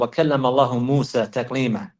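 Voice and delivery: اللَّهُ ending in a "hu" sound; original case ending. Retold or imitated. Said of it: "he asked him to recite".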